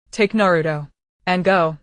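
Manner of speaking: hoarse, dying final command; a hoarse farewell order. Acted. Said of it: "That hoarse voice, like a broken bellows".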